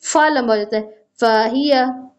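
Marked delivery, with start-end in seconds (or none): 1.2-2.1 फाहिया with a throaty ह, recited; careful tajweed फाहिया; correct Arabic recitation. Shown as a demonstration. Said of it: "सही इसका जो अदायगी और वर्ड है".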